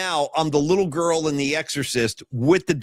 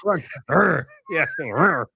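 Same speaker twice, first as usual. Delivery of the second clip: demonic grunt imitation; 2 semitones lower, slower than usual. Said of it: "She goes".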